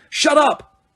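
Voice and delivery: very high loud yell; Harry yelling at the poltergeist; shout. A narrator's reading. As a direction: scream it at him.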